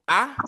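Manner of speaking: "a" as a clear open ah; open vowel. Shown as a demonstration. Teacher has class repeat after her, open vowel. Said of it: "open vowels".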